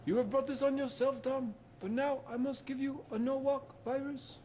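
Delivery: loud wizard battle cry; spell-casting shout. Acted. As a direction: bellow the spell out. Dumbledore casts spell at Voldemort.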